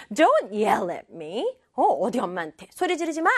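acted stern telling-off, English then quick Korean; mock indignant mom putting a child in place; scolding mother. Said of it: "이렇게 하면서".

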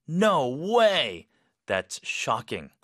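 slow, emphatic shocked reaction; strong shock. Shown as a demonstration. Teacher modelling a reaction to shocking news, strongly shocked. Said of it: "좀 스트롱하게".

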